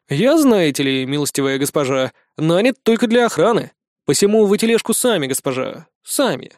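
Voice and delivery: hammed-up lordly servant manner; a touch of mock courtly airs; mock pompous. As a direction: play the haughty knight a little. Mock-pompous knight pose.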